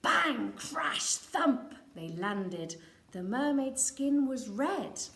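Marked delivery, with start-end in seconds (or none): 0.0-1.7 loud, punchy sound words; bang crash thump. A narrator's reading. Reading the crash landing to a child, loudly. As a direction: boom out each landing word.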